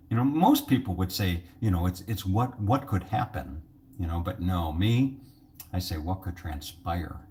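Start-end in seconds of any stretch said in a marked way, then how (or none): 6.0-7.2 mock sophisticated. Shown as a demonstration. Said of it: "'Cause it makes me sound smarter".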